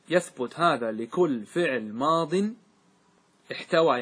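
teacher dictating a grammar rule slowly; slow dictation. Shown as a demonstration. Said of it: "slow dictation of rule".

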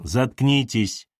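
slow, cold command to shut up; curt order. Acted. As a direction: order her silent, slowly. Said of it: "велел он". (холодно и медленно приказывая)

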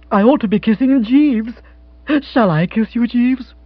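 high, eager female voice; lifted, delighted girlish character; elated young woman. Acted. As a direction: gush with affectionate excitement. Jill gushes to Jeeves.

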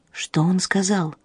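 unvoiced, slow whisper. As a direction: breathe the question slowly. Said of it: "шёпотом спросила Фрина".

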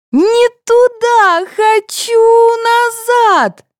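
put-on very high, slow child's voice; a little girl digging in her heels; whiny child. A narrator's reading. Sveta pulled to the toilet, whining high. Child resists being dragged.

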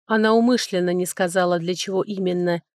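ordinary delivery

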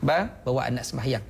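brief, mild request to a husband; gentle request. Shown as a demonstration. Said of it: "Puan cakap lembut begitu je".

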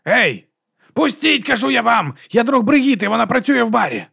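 very high desperate shouting; drunk man yelling. A narrator's reading. Drunk man yelling at bouncers to let him in. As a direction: force your way past the bouncers, yelling.

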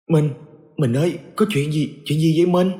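rising panic as she asks her husband; frightened, trembling. A narrator's reading. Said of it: "liền hoảng sợ run giọng".

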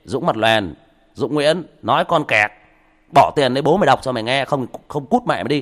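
loud, rude mock insults; mock rude commenter; rude troll voice. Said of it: "vài thằng mất dạy nó sẽ nói anh như thế".

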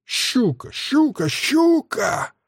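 very high hissed sniggers; gloating cackle. A narrator's reading. Villain's recurring cackle before torture.

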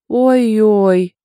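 sarcastic jab at a friend; teasing sing-song sneer; snarky. A narrator's reading. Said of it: "язвила вовсю Янка".

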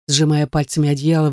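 ordinary delivery

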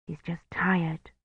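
whispery, slow private thought; inward thought. A narrator's reading. Kivrin reassuring herself about the priest, hushed thought. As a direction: think it softly and slowly. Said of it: "she thought".

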